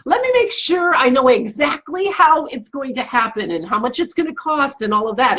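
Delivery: lightly voiced inner worrier, stalling with conditions; fussy controlling inner voice. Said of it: "it was like".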